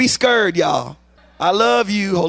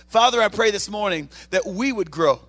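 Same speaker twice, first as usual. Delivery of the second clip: earnest prayer with a music bed. Acted. Pastor praying over the congregation, earnest prayer voice. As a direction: pray it over the church, earnest.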